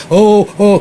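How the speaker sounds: high, loud mock alarm; panicked parents. Parents fussing over the crying boy, mock panicked squeal.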